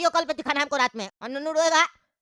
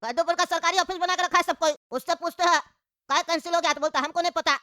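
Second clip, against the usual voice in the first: indignant, slightly raised pitch; irate complaining. Acted. Stranded old passenger pestering a fellow traveller, irate complaining. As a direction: grumble heatedly at someone who won't answer. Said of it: "चिल्ला कह रहे".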